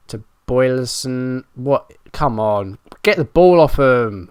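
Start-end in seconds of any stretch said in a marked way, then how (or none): 2.1-4.3 frustrated yell. Real, not acted. Frustrated at opponent keeping ball.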